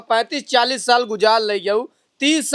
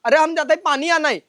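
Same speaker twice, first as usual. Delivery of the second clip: higher-pitched, exasperated protest; insistent protest; 4 semitones higher than usual. Acted. Accused old man repeats his excuse, insistent.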